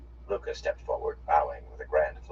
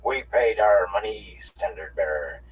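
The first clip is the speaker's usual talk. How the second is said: put-on slow, louder twangy Seanchan accent; 5 semitones higher, 8 dB louder, slower than usual. A narrator's reading. Soldier answering his officer in a slow twangy accent. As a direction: plead your case in a twangy drawl. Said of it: "replied in the same twangy accents".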